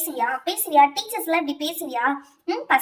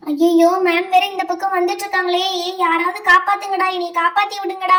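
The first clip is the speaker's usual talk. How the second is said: loud, frantic cry for help to her classmates; begging her friends to save her, louder and louder; panicked plea; 5 dB louder than usual. Acted. Student panics as the teacher walks toward her desk, loud frantic pleading.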